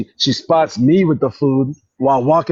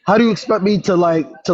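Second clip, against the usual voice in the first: raised voice; 4 semitones higher than usual. Shown as a demonstration. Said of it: "talk like this?".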